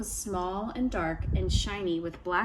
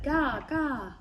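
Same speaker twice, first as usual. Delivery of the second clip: trickster tale voices; 6 semitones higher than usual. A narrator's reading. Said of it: "Ravenchild said".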